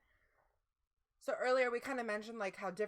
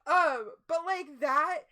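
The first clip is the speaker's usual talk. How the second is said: loud, higher, still laughing; 6 semitones higher, 8 dB louder than usual. Real, not acted. Host reacting to a chat song cue, laughing loudly. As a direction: burst in laughing at the chat joke.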